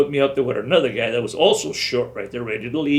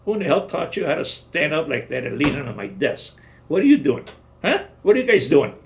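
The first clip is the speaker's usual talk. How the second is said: louder, higher barked questions; sergeant yelling; 3 semitones higher, 3 dB louder than usual. Retold or imitated. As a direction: tear into the loafers. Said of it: "He yelled at them".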